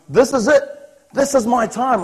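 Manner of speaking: telling himself his moment has come; excited inner thought. Retold or imitated. Hopeful player thinking at the trials, excited and eager.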